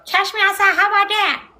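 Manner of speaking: high, loud put-on brash voice; quoted catchphrase impression. Streamer reminds mom of Doctor Phil show, loud high mimicry. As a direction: blurt it out as a hammed-up catchphrase. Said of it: "the bald head dude with a".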